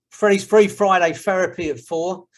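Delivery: a light London accent on Freddie's Free Friday Therapy at four. Shown as a demonstration. Host teaching the group his catchphrase in a light London accent. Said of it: "You have to learn to say it like that, with a London accent".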